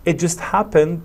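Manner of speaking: "just" punched, "happened" following lightly; stress on JUST. Shown as a demonstration. Teacher modelling a report of a recent accident, stress on "just". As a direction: hit the word "just". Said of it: "Notice the stress on just".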